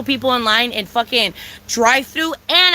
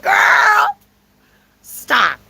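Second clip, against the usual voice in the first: laughing, shouting high; laughing outburst of disbelief; 10 semitones higher, 5 dB louder than usual. Retold or imitated. Laughing at the waiter, then shouting in disbelief. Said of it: "I was like".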